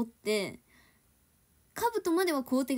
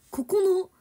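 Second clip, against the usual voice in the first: mock instruction reading; 4 semitones higher, 8 dB louder, slower than usual. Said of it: "よく言う".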